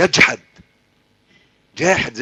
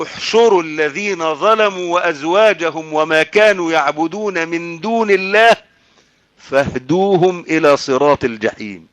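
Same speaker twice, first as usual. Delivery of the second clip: drawn-out, solemn verse recitation; Quran recitation. Acted. Preacher quoting God's judgement on wrongdoers, Quran recitation. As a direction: recite with long held vowels.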